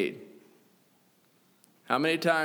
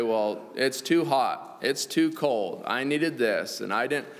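whiny adult; slower than usual. Retold or imitated. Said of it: "whiny adult".

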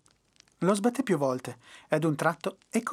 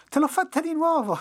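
gloating laugh; 12 semitones higher, 5 dB louder than usual. A narrator's reading. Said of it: "si mise a ridere come un pazzo".

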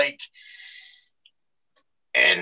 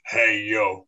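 a lower, hammed-up Cuban accent; bad Razor Ramon accent; 7 semitones lower than usual. Fan greeting his wrestling hero in a bad Cuban accent. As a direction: greet him lightly in a mock Cuban accent. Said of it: "for this bad accent".

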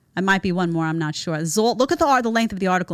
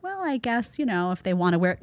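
hesitant woman; 5 dB quieter than usual. Retold or imitated. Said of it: "She's like".

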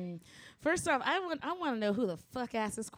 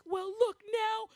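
put-on much higher, slow reasonable kid voice; imitating a toddler; 12 semitones higher, 3 dB louder, slower than usual. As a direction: play the two-year-old calmly lecturing an adult. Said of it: "And he was like".

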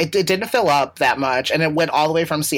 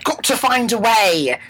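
slow, pitched-up echo; mock heroic echo; hammed-up echo; 6 semitones higher than usual. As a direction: draw it out like a catchphrase. Echoing co-host in character.

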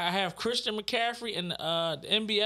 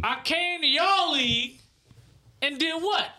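slow, higher teasing brag; dramatic pausing; 8 semitones higher, 3 dB louder, slower than usual. Real, not acted. Boasting to friends, slow and pausing. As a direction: stretch each word to milk the moment. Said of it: "Fred, stop pausing".

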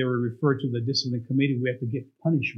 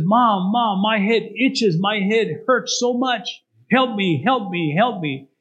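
crying son; 5 semitones higher, slower than usual. Acted. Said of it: "he was crying".

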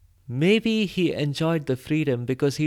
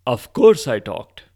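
loud and confident; bold; 2 semitones lower, 8 dB louder than usual. Acted. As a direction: say it proudly, chest out. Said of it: "said Hans boldly".

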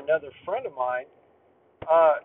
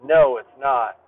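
retold scolding; 7 dB louder than usual. Narrator scolding the laughing guy, firm and loud. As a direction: call him out firmly. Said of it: "And I said".

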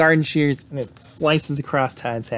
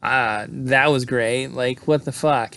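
sarcastic berating; slower than usual. Retold or imitated. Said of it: "Sally berates him for it".

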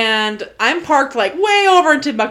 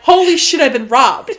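louder mock panic; 3 semitones higher, 5 dB louder than usual. Her retold panic at her missing car, louder mock alarm. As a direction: sound like your car was stolen. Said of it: "And I was like".

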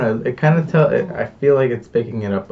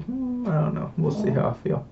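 soft, half-whispered musing; hushed inner voice; 11 semitones higher, 9 dB quieter than usual. Retold or imitated. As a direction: mull it over under your breath. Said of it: "But then I was like".

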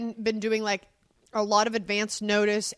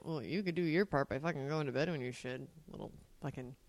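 muttered inner grumble, much softer; under the breath; 7 semitones lower, 11 dB quieter than usual. Retold or imitated. Parent retelling private annoyed thoughts about son. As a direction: grumble it to yourself. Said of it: "in my head, I'm thinking".

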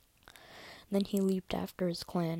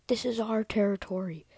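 higher, louder defiant cry; raised, emphatic battle cry; yowl; 4 semitones higher, 6 dB louder than usual. Acted. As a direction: yowl it back at a clanmate. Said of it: "yowled back".

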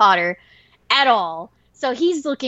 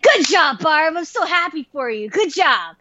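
higher-pitched congratulations; retold happy praise; proud cheering; 5 semitones higher than usual. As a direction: cheer your friend on. Cheers on her returning friend.

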